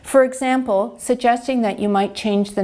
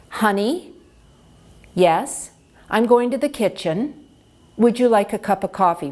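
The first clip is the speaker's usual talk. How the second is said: slow clear speech. Shown as a demonstration.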